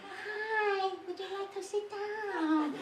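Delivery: put-on very high, slow Thai accent, laughing; mock Thai accent. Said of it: "high and nasally".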